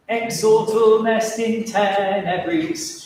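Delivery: "Exortum Est in tenebris" enunciated slowly, syllable by syllable; slow, measured diction demo of "Exortum Est in tenebris"; clear articulation. Shown as a demonstration. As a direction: model the tricky words Exortum Est in tenebris in slow rhythm. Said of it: "tricky words".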